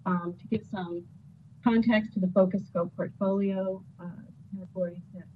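fading in and out; sitting too far from the mic; bad connection. Real, not acted. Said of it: "you keep kind of fading in and out".

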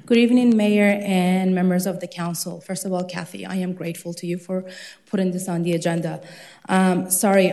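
breathless after rushing in; out of breath. Real, not acted. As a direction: catch your breath between words. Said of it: "I'm a little out of breath".

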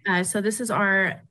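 echoing, choppy phone line; cutting out audio. Real, not acted. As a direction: voice dropping out on the call. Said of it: "Yes, it is".

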